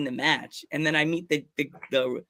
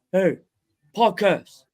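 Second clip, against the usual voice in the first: imitated call-out, a touch louder; calling across the room; 4 semitones higher, 4 dB louder, slower than usual. Wrestler hailing him across the room, imitated call. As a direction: lightly mimic calling out to someone. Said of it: "from, like, across the room".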